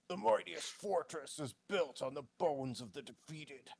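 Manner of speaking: measured, self-assured proclamation; lightly voiced confident declaration; explaining himself well. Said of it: "as though he's, like, explaining himself really well".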